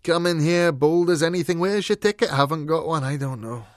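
loud, high-pitched grumbling, easing off at the end; gloomy, exasperated complaint; grumbling dog. A narrator's reading. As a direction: rant like a fed-up ticket dog. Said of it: "said the dog gloomily".

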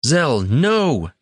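high shouted warning; shouting. A narrator's reading. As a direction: cry out to stop him. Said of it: "Tanner shouted".

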